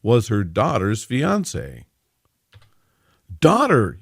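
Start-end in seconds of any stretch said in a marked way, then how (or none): 3.4-4.0 high, loud exclamation; outraged yell. A narrator's reading. Mother confronting her daughter's fiancé, yelling. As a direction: burst out in shocked anger. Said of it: "yelled Victoria".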